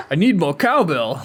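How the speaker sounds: badly faked celebrity impression, half laughing; Christopher Walken. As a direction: attempt the actor's voice and nearly give up. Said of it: "My Christopher Walken".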